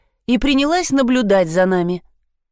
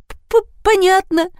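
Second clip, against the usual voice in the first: much higher, slow stammer; stuttering fright; 13 semitones higher, 3 dB louder, much slower than usual. Acted. Frightened blonde watches the dogs, stammering. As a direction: stutter it out in terror. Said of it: "прозаикалась Лена".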